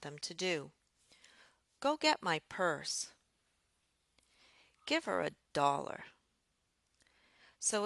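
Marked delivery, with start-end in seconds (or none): 1.8-3.1 "Go get my purse" rising, then falling on "purse"; rising-falling command. Shown as a demonstration. Telling someone what to do, rising-falling command. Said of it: "We also use that rising, falling pattern for commands". 4.9-6.1 "Give her a dollar" rising, then falling through "dollar"; rising-falling command. Shown as a demonstration. Telling someone what to do, rising-falling command. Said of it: "a command uses a rising pattern followed".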